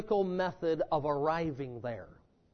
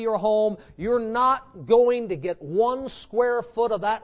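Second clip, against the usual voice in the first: building, insistent preaching cadence; emphatic preaching; 3 semitones higher than usual. Real, not acted. Preacher warning the church to defeat their own fear, emphatic preaching. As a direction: drive each phrase home like a preacher.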